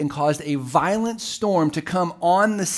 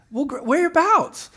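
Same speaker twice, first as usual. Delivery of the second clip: dad's suspicious question; 11 semitones higher than usual. Retold or imitated. Dad voiced in a story.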